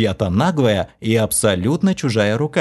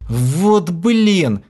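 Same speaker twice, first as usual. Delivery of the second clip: high, loud howl of dismay; 8 semitones higher, 3 dB louder than usual. A narrator's reading. The hero realises the love aura, howling. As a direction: wail it out at full voice. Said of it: "взвыл я во весь голос".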